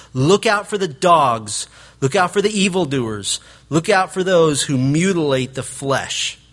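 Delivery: measured, stern alarm; righteous indignation. Retold or imitated. Paul warning the church, mild righteous indignation. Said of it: "changes his tone to one of righteous indignation".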